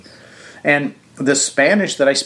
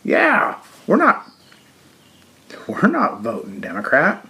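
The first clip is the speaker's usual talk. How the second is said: sudden high excited outburst, then settling; imitating voters who just figured it out; mock realization; 5 semitones higher than usual. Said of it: "all the Mexicans will be like".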